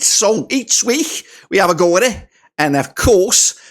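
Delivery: put-on fading Scouse accent. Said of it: "I forget the Scouse accent".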